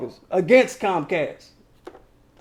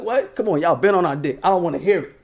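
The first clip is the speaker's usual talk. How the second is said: a rapper's voice; 4 semitones lower than usual. Retold or imitated. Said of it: "in my Nas voice".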